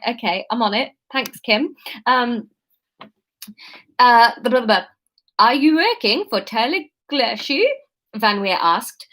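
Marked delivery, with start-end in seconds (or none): 5.4-7.6 second, careful attempt at a Dutch accent; coached Dutch accent. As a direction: try the Dutch accent with deliberate care. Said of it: "Sat the th as a duh".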